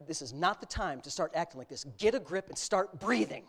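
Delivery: controlled fatherly scolding; firm, restrained order to a panicking child; stern dad voice. Retold or imitated. Dad telling his shaking son to get a grip, stern. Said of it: "he knows when Dad changes his voice".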